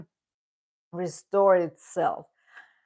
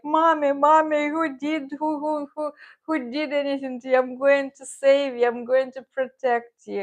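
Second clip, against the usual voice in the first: much higher, eager pet voice; dog's voice; 8 semitones higher than usual. Retold or imitated. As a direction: voice the cat as a worried little protector, high and earnest. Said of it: "And Don Pep was like".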